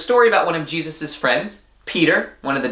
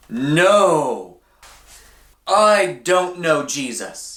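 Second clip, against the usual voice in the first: Peter denying; 3 semitones higher, much slower than usual. A narrator's reading. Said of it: "What do you think Peter said?".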